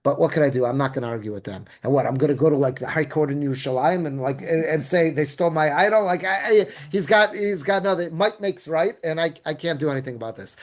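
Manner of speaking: teacher voicing Micha, understated and resigned; dejected. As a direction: mutter the loss mildly, giving up.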